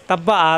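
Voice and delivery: তাব্বা আ with short, prompt vowels; no lingering. Shown as a demonstration. Teacher shows students a short, undelayed তাব্বা আ. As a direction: say তাব্বা আ without delay. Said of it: "দেরি করা যাবে না".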